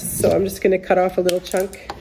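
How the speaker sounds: stuffy nose, congested voice; nasal voice from a cold. Real, not acted. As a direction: talk through a head cold, blocked nose. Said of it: "sorry for the nasally voice".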